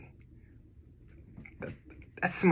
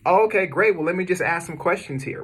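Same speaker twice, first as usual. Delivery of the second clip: excited caller; 5 semitones higher than usual. Pretend. Caller pleased.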